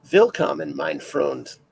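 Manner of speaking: put-on German greeting in an amateur's accent. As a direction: try out some beginner's German, starting loud. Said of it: "that's my German".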